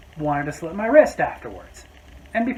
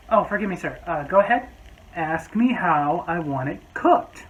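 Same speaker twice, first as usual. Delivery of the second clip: sarcastic politeness. Retold or imitated. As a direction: humor him with fake courtesy. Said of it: "So I just walked back up and went".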